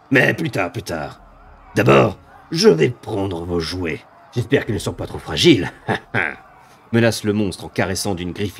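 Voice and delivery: slow, relishing monster threats; gloating demon. Acted. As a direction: savour the coming kill. GM voices the demon.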